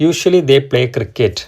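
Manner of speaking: each word drawn out very slowly; slow dictation reading. Shown as a demonstration. Teacher reading the example sentence to students, very slowly. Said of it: "എന്നുള്ളതാണ് എന്ത് നമുക്ക് തന്നിരിക്കുന്ന sentence".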